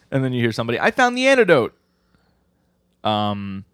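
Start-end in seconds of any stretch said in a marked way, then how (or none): 0.8-1.7 high, loud acted shout of discovery; hammed-up announcement to everyone; calling out. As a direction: call it out urgently in a raised, high voice. Character calls out a find.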